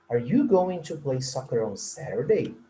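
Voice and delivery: pitch rises on the word "Saturday". English lesson on questions with going to, with rising pitch on final Saturday. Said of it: "A entonação vai subir".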